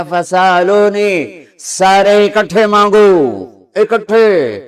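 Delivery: high, long-drawn summons; resounding divine call. Acted. Preacher voices Allah telling all to ask together, in a ringing call. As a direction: call out slowly to a vast crowd.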